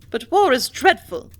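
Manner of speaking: high, loud cry of dread; mother horrified at war; cried out. A narrator's reading. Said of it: "cried Missus Clayton".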